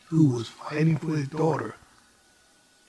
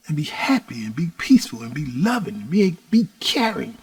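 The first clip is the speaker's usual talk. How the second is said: put-on tender to the unborn baby; 2 semitones lower than usual. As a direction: coax the baby gently. Father speaking to unborn baby.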